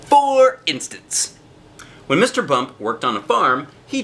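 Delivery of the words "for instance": high, slow sing-song for instance; drawn-out singsong aside to the listening kids; playful refrain. A narrator's reading. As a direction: stretch it out up high like a teasing refrain.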